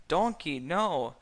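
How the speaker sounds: loud, high angry shout; loud furious protest. A narrator's reading. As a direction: order him out of the swamp. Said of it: "Shrek said angrily".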